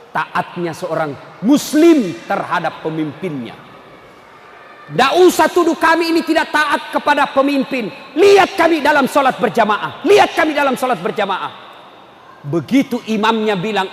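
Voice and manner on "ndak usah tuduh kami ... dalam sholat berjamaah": raised, insistent preacher voice; emphatic sermon appeal; forceful preaching. Real, not acted. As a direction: drive the challenge home to the congregation.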